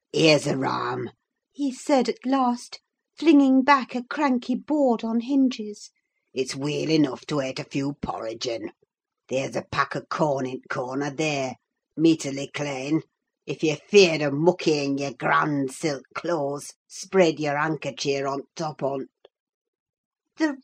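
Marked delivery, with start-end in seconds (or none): 0.1-1.1 deep, broad Yorkshire grumble, slow in places; gruff old servant scoffing at the guest; surly old Yorkshireman. Acted. Old servant brushing off the visitor, gruff Yorkshire scorn. Joseph voiced. 6.3-19.1 put-on gruff old servant scoffing at the guest; surly old Yorkshireman. Old servant brushing off the visitor, gruff Yorkshire scorn. Joseph's dialect voice.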